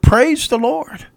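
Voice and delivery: high, drawn-out acted cry of praise; joyful shout. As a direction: shout thanks slowly from the porch. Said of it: "And she shouted".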